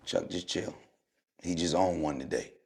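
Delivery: quietly calm a teammate down; hushed aside. Retold or imitated. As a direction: teammate telling Chuck to chill, hushed. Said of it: "Eric Snow".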